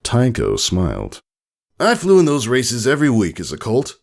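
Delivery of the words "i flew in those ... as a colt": soft fatherly. A narrator's reading. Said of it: "soft fatherly voice".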